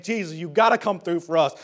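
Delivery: acted plea building to a shout; mock desperate appeal, building; crying out. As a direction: start restrained, rise to a loud, urgent cry. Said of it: "they cry out to Jesus saying".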